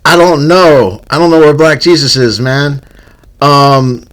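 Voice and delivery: lifted, projected podcast-host delivery. Real, not acted. Host telling his brother the show must go on, host voice. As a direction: keep the show-host voice on during a phone call. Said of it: "you have your host voice on".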